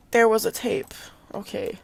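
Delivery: breathy whisper of a secret aside. Real, not acted. Gamer whispers a quick secret aside to viewers, whispered.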